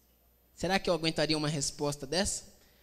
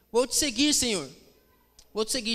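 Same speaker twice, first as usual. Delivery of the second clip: higher, keen declaration; acted eager volunteer; 5 semitones higher, 4 dB louder than usual. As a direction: play a would-be follower pledging himself. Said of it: "Vem outro e diz assim".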